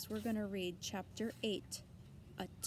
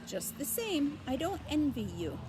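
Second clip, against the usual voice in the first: put-on high, bleating old ewe; nosy old sheep greeting; 6 semitones higher, 4 dB louder than usual. A narrator's reading.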